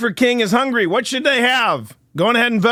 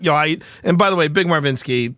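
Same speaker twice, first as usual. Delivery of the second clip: normal talking voice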